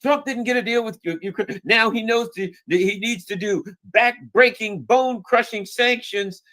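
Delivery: lightly mocking pulpit tone; mock preacher. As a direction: ham up a preachy politician demanding sanctions. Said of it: "preaching something about".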